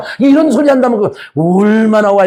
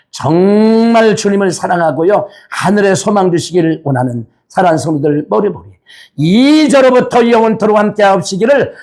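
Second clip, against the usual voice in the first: solemn closing benediction. Real, not acted. Pronounces benediction.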